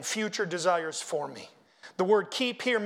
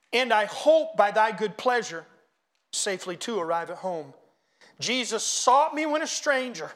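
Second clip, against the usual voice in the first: reciting hymn lyrics; 4 dB louder than usual. Acted. Pastor reciting the hymn to his flock, building to fervent praise. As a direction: start measured, swell with praise by "Oh, to grace".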